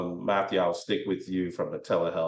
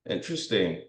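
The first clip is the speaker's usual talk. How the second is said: sarcastic; faster than usual. Pretend. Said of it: "I'm being intentionally sarcastic".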